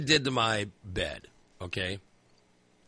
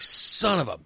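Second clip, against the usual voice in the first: retold curse, drawn out and higher; angry curse; 4 semitones higher, 4 dB louder, slower than usual. Man retelling his sleepless night, angry curse. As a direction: stretch it out in exasperation. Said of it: "I'm just so angry".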